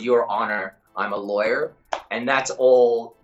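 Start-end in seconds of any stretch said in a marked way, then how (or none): 0.0-1.7 lightly dropped American voice; American accent. Shown as a demonstration. Actor quotes his warm-up phrase to interviewer, American accent. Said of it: "there's a phrase called".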